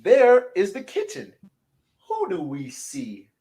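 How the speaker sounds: gentle storybook close; storybook voice winding down; reading to children. A narrator's reading.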